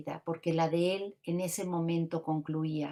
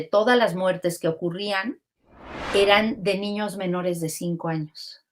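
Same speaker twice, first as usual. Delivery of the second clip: emphatic; 2 semitones higher, 7 dB louder than usual. Real, not acted. Lecturing statistic emphatically.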